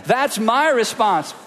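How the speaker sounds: slow, deliberate practice line; slow group practice of the phrase. Shown as a demonstration. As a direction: say it slowly together. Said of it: "let's just practice that one too".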